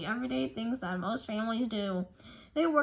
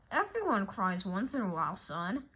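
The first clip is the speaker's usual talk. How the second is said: fatherly comfort; 3 semitones lower than usual. Acted.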